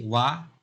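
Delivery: "वा" cut off as the first beat of वाटर; single syllable alone. Shown as a demonstration. Teacher demonstrating a clap per sound, "वा" set apart. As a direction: say only "वा", then stop for a clap. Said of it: "हर sound पे जैसे ही".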